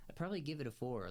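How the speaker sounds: fast, offhand restatement of the score; quick repeat. Shown as a demonstration. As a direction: reel off I'd probably give it a four quickly as a recap.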